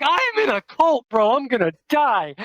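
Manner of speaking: high, strained mock panic. Scared kid among skinheads, panicking in high voice. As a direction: squeal it like you're sure you're doomed. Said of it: "I'm like".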